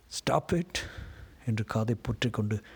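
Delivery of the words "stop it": alarmed cry. A narrator's reading. Narrator covering the ears against the voices, restrained scream. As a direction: cry out to shut it all out. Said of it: "அலறினேன்".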